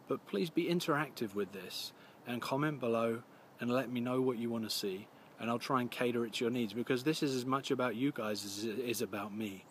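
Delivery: slightly scratchy voice from a coming flu; a touch of gruffness in the throat; gruff scratchy voice. Real, not acted. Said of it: "I do apologise if I sound a little gruff".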